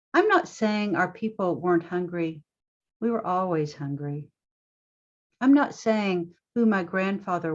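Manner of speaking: measured poetry reading with deliberate pauses; poem reading. Acted. Poet reading her own poem to festival audience, measured poem reading. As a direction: open each line firmly and let it settle.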